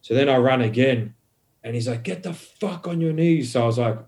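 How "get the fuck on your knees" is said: higher-pitched mock police command; retold stern order. Cop to the fleeing man, stern order. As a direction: imitate a cop's sharp order, not shouted.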